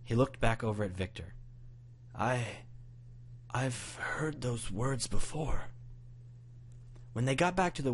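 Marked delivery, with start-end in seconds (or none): 2.1-5.7 horrified grandpa. A narrator's reading. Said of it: "expression changed to complete horror".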